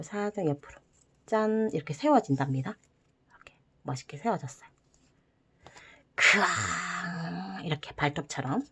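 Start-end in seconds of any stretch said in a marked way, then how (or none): 3.3-4.7 fast, breathy whispered aside; a hushed proud whisper over the finished dragon. Real, not acted. Dragon stands up, proud reveal. 6.1-7.6 drawn-out playful roar; a soft pretend dragon roar. Dragon model roars.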